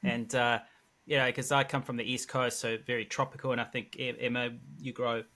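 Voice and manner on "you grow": usual speaking voice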